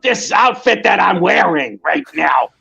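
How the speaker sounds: a hint of Gilbert Gottfried, barely pushed; Gilbert Gottfried impression. Cosplayer offering to keep the tirade going, a light hint of Gilbert Gottfried. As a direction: lightly mimic his voice, held back. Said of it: "Gilbert Gottfried voice".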